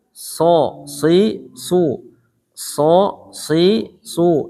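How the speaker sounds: SO, SI, SU each with a thick, heavy S; measured drill on heavy "So, si, su"; unpulled sod. Shown as a demonstration. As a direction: say "So, si, su" as separate dark syllables, lips unstretched. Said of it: "Sod itu kan nggak ditarik".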